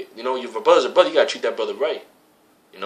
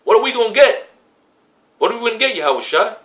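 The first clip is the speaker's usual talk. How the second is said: frustrated Peter; 9 semitones higher than usual. Retold or imitated. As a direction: whine it like a fed-up disciple. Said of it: "he got frustrated".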